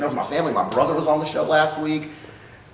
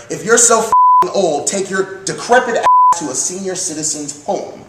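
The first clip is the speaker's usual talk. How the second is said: grandmother's angry retort; 5 semitones higher than usual. Retold or imitated. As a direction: tell her off like a feisty grandmother. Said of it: "My grandmother told her".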